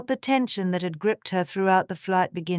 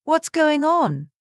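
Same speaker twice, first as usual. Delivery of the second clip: higher, louder and slow with alarm; anxious question; 9 semitones higher, 5 dB louder, slower than usual. A narrator's reading. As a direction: ask in sudden alarm. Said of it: "feeling her heart squeeze with anxiety".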